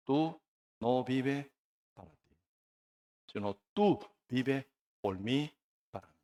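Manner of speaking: soft, halting divine reply; Holy Spirit's voice. Acted. Holy Spirit answering the preacher, quiet and measured. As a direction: pause between phrases, gently correcting. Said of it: "El Espíritu Santo, ¿qué me dice?".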